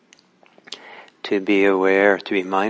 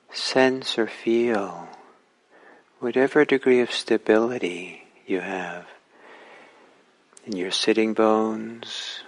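unhurried instructions with long pauses; calm, spacious meditation-teacher delivery; guided meditation. Real, not acted. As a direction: guide listeners gently, phrase by phrase, leaving space between.

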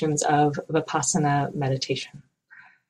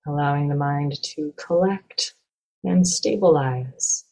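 calm, measured meditation guide with long pauses; guided meditation. Acted. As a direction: guide listeners gently, leaving space between phrases.

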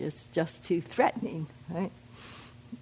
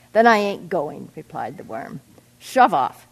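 stubborn refusal; 6 dB louder than usual. Acted.

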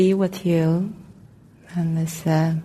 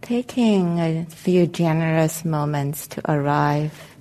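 calm, unhurried meditation guidance with long pauses; guided meditation; 5 dB quieter than usual. Real, not acted. Meditation teacher helping the group settle into their seats, calm guided meditation. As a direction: guide them gently into arriving, leaving space between phrases.

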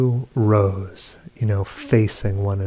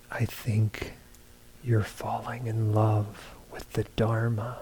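hushed, much softer imitation of whispering; retold whisper; 8 dB quieter than usual. Retelling what he told a blindfolded woman in her ear, hushed. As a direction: confide it softly, as if into someone's ear. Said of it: "I whisper in her ear".

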